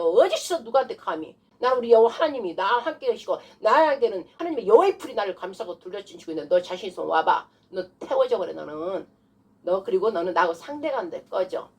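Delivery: stern spiritual warning; forceful rebuke. Shown as a demonstration. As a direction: challenge the demon with authority. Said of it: "이렇게 해야 되는 거예요".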